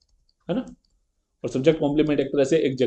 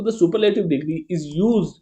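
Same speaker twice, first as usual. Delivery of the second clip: very slow, word by word; slow definition reading; 2 semitones higher, much slower than usual. Shown as a demonstration. Teacher reading the superlative definition to the class, slow. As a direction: read the rule slowly for the students.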